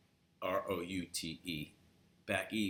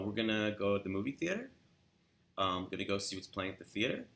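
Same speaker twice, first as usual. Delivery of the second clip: fast, higher, a bit louder Californian chatter; quick and light; 3 semitones higher, 4 dB louder, faster than usual. Shown as a demonstration. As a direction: rattle it off quickly with upspeak. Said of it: "Everything's very quick".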